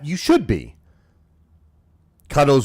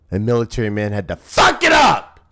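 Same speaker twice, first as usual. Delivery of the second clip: mock outrage. Mock blaming the guest.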